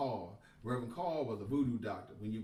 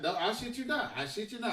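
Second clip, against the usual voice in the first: laughing insistence; 10 semitones higher than usual. Real, not acted. Swearing the story is true.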